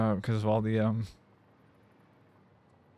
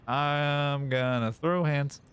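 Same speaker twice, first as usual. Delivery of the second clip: slow, drawn-out mock threat; hammed-up, slow-burning anger; mock mad; 3 semitones higher, much slower than usual. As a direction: stretch it out like a playful threat. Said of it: "I get real mad".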